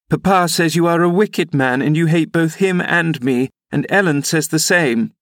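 put-on high, girlish accusation held up throughout; defiant young lady. Young lady accusing the rider to his face, high and defiant.

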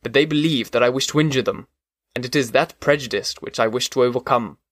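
steady, measured reading of a classic novel; audiobook narration. A narrator's reading. Podcast host reads the creature's tale, measured narration. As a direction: carry the listener through the chapter. Reads Frankenstein chapter aloud.

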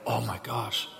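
soft, quiet wonder; quiet awe before Jesus; awed, hushed. Retold or imitated. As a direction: speak it like a private prayer. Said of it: "I go".

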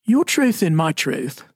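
mock-educated take on 'Your truth and my truth'; a touch of put-on polish, said slowly; trying to sound smarter. Shown as a demonstration. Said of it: "I'll try to sound a little smarter".

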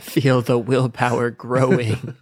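slow mock motivational voice; slow dramatic coaching drawl; hype coach voice. Mock coach voice over frat joke.

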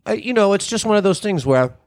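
choking on a drink; coughing through a choke. Real, not acted. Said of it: "excuse me, I'm choking".

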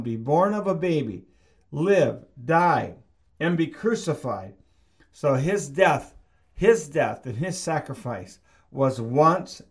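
rising, insistent sermon voice; preaching. Acted. Pastor preaching the cross to the church, insistent. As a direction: drive each repeated line home to the congregation.

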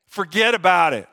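playful hint of an Italian accent; lightly put-on Italian-American accent. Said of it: "take a little Italian accent there".

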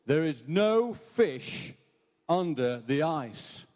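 slow, drawn-out voice from nowhere; mysterious voice. Acted. Preacher's joke, the hidden voice repeating itself slowly. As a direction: intone each word slowly, unseen. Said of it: "he hears this voice saying".

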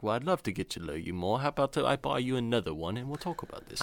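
put-on woo her in a suave British accent; a man with a hint of a refined British gentleman chatting up a woman at a bar; British charmer. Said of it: "let's put our voice versus his voice".

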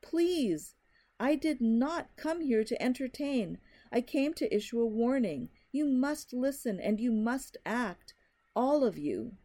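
high, pleading, desperate warning; frantic. Acted. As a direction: beg them frantically to act. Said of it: "his voice frantic now".

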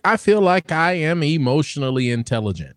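stiff robotic monotone. Real, not acted. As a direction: say it like a robot reading. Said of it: "you sound like a robot the way you said it".

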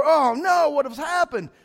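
loud, high hammed-up alarm; mock panic. Pastor imitating panicked churchgoers, mock loud dismay.

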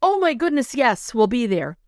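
recalling her joy at the invitation, thrilled; thrilled acceptance. Retold or imitated. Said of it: "And I'm like".

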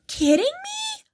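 high, slow, stretched-out disbelief; squeaky disbelief. Real, not acted. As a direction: stretch the words out in shock. Disbelief at goals remark.

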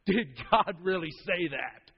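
slow, mocking sneer on "Did God really say that?"; sneering serpent. Shown as a demonstration. Preacher voices the serpent mocking God, sneering. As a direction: look down your nose as you drawl it. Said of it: "He said".

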